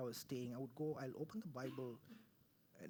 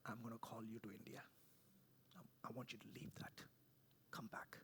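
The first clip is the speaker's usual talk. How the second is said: God's voice; 5 semitones lower, 10 dB quieter than usual. Retold or imitated. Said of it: "God said".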